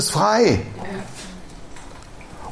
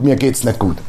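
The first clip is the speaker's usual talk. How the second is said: mock moaning; 8 semitones lower than usual. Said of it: "kämpfe selber grad mit".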